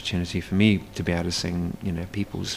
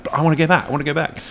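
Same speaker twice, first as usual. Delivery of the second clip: whiny pleading; 7 semitones higher, 6 dB louder, much faster than usual. Retold or imitated. Whiny longing for the island.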